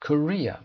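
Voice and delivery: Korea with the RE syllable punched loud and high; stress on RE. Shown as a demonstration. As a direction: hit the second syllable of Korea. (تأکید روی ر در Korea)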